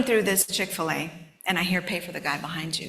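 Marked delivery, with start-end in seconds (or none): 1.8-2.9 soft, hushed voice of God; quiet whisper of a divine nudge; inner voice. Retold or imitated. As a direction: say it like a quiet prompting inside you. Inner voice repeats.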